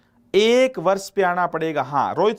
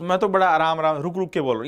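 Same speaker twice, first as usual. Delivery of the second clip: fast; 3 semitones lower, faster than usual. Real, not acted. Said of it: "रुक कर प्यार से बोला करो".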